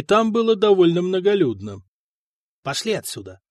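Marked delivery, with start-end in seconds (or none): 2.6-3.4 through gritted teeth. A narrator's reading. Kosta urges Vatslav to leave, through gritted teeth. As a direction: hiss it through clenched teeth. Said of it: "сквозь зубы сказал Коста".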